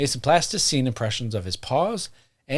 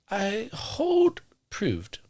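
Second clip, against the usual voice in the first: put-on high, slow, old-fashioned pronouncement; high and very slow old-gentleman line; old-timey voice; 8 semitones higher, 4 dB quieter, much slower than usual. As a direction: declare it like a fussy Victorian gent. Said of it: "that's old-timey talk".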